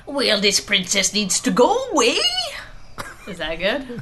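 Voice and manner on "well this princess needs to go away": Scottish cartoon villain audition; badly faked Scottish animation voice; bad Scottish voiceover. Shown as a demonstration. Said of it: "the Scottish voiceover?".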